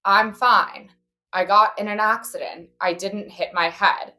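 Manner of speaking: slow, spaced-out imitation of dad; dad in a trance. Dad on the phone after the crash, imitated as if entranced. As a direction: mimic someone dazed, stating each phrase separately. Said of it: "it sounded like he was in a trance".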